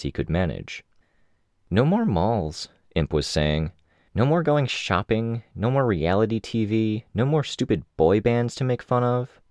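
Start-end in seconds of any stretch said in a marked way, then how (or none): 1.7-2.7 put-on higher playful girl voice; Imp listing. Imp lists what she'll miss, higher and playful. Imp's voice in dialogue. 4.1-9.4 put-on higher playful girl voice; Imp listing. Imp lists what she'll miss, higher and playful. Imp's voice in dialogue.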